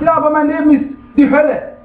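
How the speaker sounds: mildly acted complaining; mock complaint. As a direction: protest like a self-pitying objector. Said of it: "Ja, du sagst".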